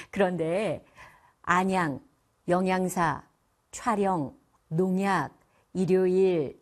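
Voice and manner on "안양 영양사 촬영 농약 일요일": 안양, 영양사, 촬영, 농약, 일요일 with no added N or L sound; correct linked pronunciation. Shown as a demonstration. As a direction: model 안양, 영양사, 촬영, 농약, 일요일 evenly, linking each syllable. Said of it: "이렇게 발음하셔야 돼요". (안양, 영양사, 촬영, 농약, 일요일을 ㄴ 첨가 없이 연음으로)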